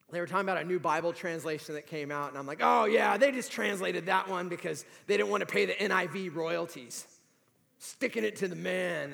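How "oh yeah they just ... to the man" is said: retold cynical wisecrack; cynical quip. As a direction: toss it off like a jaded cynic. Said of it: "Well, I'm cynical".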